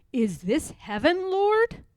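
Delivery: an awed question; Harriet in wonder. Acted. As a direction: ask in amazed disbelief.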